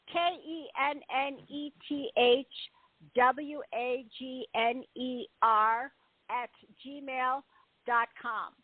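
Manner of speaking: slow letters, clearly apart; careful spelling. Shown as a demonstration. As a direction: spell the address slowly so all can write it. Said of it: "I'm gonna say it one more time".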